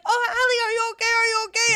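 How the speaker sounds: lightly voiced worried coworkers; mock worried coworkers. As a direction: play the coworkers rushing to check on her. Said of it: "everybody's like".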